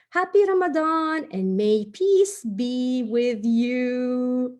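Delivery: bright, careful read-aloud of a greeting note. Acted. Host reads the holiday note to children, sing-song. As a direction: read the card to the kids like a message.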